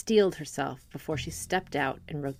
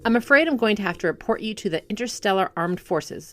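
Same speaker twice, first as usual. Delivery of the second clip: louder and higher, strict officer; stern; 3 semitones higher, 5 dB louder than usual. Acted. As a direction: lay down the law to the driver. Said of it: "she said sternly".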